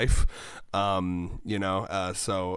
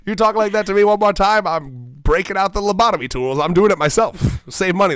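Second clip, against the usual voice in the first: loud, higher playful threat; mock angry threat; 8 semitones higher, 15 dB louder than usual. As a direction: bark a joking warning.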